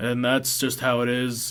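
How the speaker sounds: low, flat, one-note droning monotone. Describing a man he met who spoke on one tone, imitating a completely monotone guy. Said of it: "this guy was completely monotone... he just had one tone of voice".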